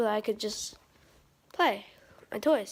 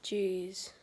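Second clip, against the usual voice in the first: low, soft, dry fake laugh; sarcastic puppet laugh; 4 semitones lower, 11 dB quieter, slower than usual. Shown as a demonstration. Dino puppet mocking the joke, a low sarcastic laugh. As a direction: laugh without meaning it, low and quiet. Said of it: "he laughs like this".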